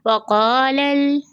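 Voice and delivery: slow recited वक़ालल, lam joined; Quranic recitation demo. Shown as a demonstration. Teacher demonstrates recitation to students, slow and drawn. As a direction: chant वक़ालल slowly with the lam merged. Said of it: "लाम से मिलकर पढ़ा जाएगा".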